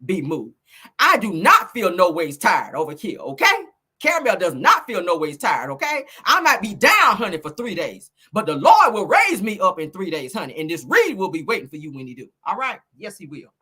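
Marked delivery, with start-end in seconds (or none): 0.1-0.6 slow, solemn church declaration; mock spiritual. Turning spiritual on the rival, mock-solemn. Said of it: "get into Negro spiritual". 1.0-12.8 mock spiritual. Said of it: "Let me get into Negro spiritual".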